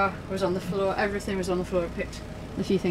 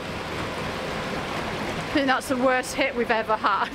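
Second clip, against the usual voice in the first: raised, drawn-out disbelief; shocked; 4 semitones higher, much slower than usual. Real, not acted. Woman to partner after their boat is hit, shocked. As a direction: reel from the blow, slowly, pitch up.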